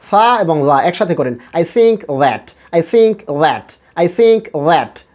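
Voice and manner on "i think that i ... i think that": I think that repeated slowly with th sounds; drill repeat. Shown as a demonstration. Teacher drills the class on I think that. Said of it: "বারবার বলেন".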